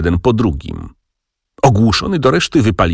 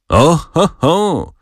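high-pitched hooting exclamation; narrated jeering-style "oho"; exclaimed from the ranks; 9 semitones higher, much slower than usual. A narrator's reading. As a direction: call out as a soldier in the line. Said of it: "zawołano w szeregu".

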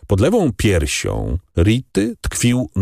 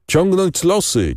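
raised, slow chanting call, much higher; bandits calling out; 11 semitones higher, slower than usual. A narrator's reading. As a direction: call it out to the chief like a rowdy bandit. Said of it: "wołali jeden przez drugiego bandyci". (głośne, powolne wołanie, znacznie wyżej)

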